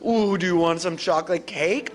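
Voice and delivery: enticing offer. Shown as a demonstration. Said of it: "be like".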